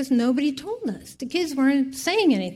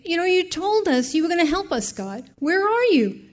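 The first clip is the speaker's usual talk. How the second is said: crying prayer; 7 semitones higher than usual. Retold or imitated. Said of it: "I'm crying".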